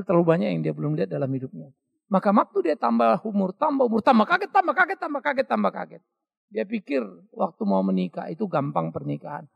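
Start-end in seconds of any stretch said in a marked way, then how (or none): 3.5-6.0 rising astonishment. Acted. Repeats growing surprise.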